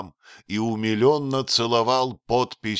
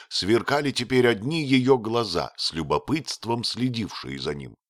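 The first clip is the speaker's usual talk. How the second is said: ordinary delivery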